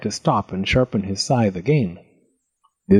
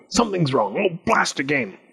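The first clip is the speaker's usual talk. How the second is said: frustrated muttering in goblin voice; put-on goblin grumble; grumbling goblin; 4 semitones higher than usual. A narrator's reading. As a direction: fret and curse to yourself as a goblin. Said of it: "he grumbled".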